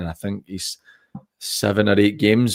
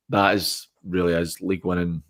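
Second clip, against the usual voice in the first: strained, fading voice; losing voice; 5 dB quieter than usual. Real, not acted. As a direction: voice giving out, words dropping away. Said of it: "sorry, I'm losing my voice here".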